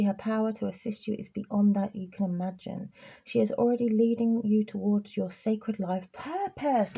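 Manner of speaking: calm oracle card reading. Acted. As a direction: read the card message steadily. Reads card message.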